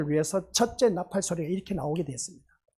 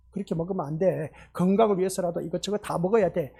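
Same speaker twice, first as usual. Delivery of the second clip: gentle parent. Retold or imitated. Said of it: "그렇게 말하지 않습니까".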